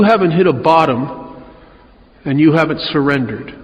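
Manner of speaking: calm, matter-of-fact quote of the sponsor; lightly voiced old-timer delivering a blunt verdict; Woody's verdict. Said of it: "He says".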